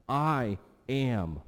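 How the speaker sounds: "I am" spoken slowly, both words weighted; deliberate, weighty "I AM"; emphatic. Retold or imitated. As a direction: lean hard on I and AM.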